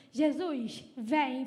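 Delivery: firm, retold call to Jesus; imitated spoken-out invitation; out loud. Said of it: "Falou em voz alta mesmo".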